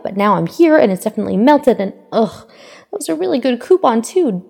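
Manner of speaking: put-on bubbly young heroine chattering apologetically; lightly voiced chirpy girl; cheerful Ochako. A narrator's reading.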